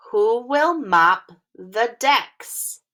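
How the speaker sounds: "Who will mop the decks?" slow again, stress on "will"; careful teacher read-along; slow word-by-word read. Shown as a demonstration. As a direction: repeat it slowly word by word. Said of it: "practice reading this sentence together".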